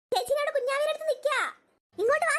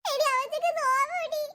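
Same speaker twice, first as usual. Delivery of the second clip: slow, tearful lament; 3 semitones higher than usual. Acted. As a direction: talk through crying, pitying the babies. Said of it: "ചേച്ചി കരയാതെ".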